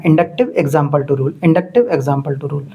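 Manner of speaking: slow, spelled-out recitation of the rule; slow drilled phrase. Shown as a demonstration. Teacher slowly drilling the formula for students to memorize. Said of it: "याद रखना है".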